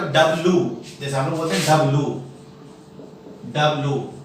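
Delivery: "डब्लू" ending in a bare loo; wrong W. Shown as a demonstration. Teacher shows the common mistake, wrong W. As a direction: say "डब्लू" as dab-loo, no y glide. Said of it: "ये गलत है".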